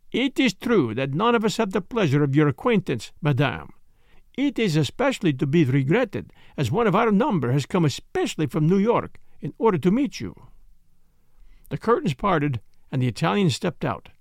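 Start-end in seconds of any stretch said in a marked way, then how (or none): 0.1-10.3 put-on lightly accented, polite detective; courteous, measured foreign gentleman, lightly voiced; Poirot. Detective soothing a startled wife, lightly voiced courtesy.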